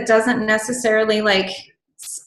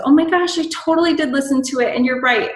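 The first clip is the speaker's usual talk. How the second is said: gushing reply; 4 semitones higher, faster than usual. Retold or imitated. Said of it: "a response that says".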